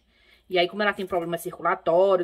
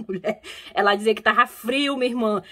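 normal talking voice

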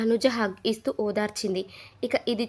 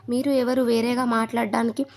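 making a scene; 4 dB louder than usual. Retold or imitated. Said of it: "Madhuri రచ్చ చేసింది".

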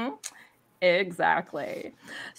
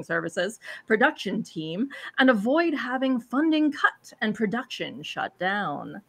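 put-on solemn storyteller reading an old legend; grave ancient myth telling. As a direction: read it like an epic prophecy. Reads game's intro text aloud.

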